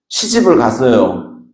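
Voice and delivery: usual speaking voice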